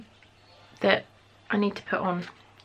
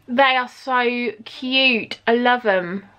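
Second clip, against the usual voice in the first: cooing; 2 semitones higher, 3 dB louder, much slower than usual. Real, not acted. Cooing over earrings.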